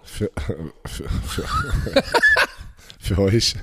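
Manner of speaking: croaky, tired voice; voice giving out. Real, not acted. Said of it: "Meine Stimme ist komplett weg".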